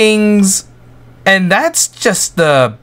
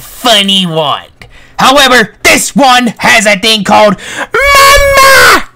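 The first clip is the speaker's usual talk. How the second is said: witch voice; 4 semitones higher, 4 dB louder than usual. Acted. Held witch voice.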